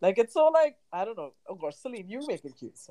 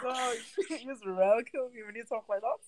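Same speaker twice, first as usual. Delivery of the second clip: words squeezed out through laughter, softer; laughing; 5 semitones higher, 5 dB quieter than usual. Real, not acted. Cracking up at her friend's accent, laughing. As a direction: laugh so hard the words barely come.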